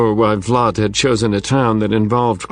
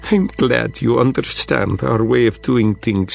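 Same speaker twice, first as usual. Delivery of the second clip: put-on Russian accent. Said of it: "that thick a Russian accent".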